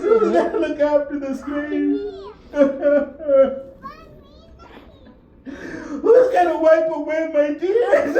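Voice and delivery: pleading through sobs, breaking off between lines; the orphan girl's lament, half-sobbed by the preacher; weeping lament. Acted. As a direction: ask each question through tears. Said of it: "she starts screaming".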